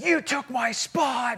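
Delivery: high, drawn-out mock yell; mock screaming. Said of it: "and he's screaming".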